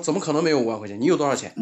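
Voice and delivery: mock demanding scammer; incredulous retort. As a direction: imitate a boss refusing to believe it. Scammer disbelieves and demands money.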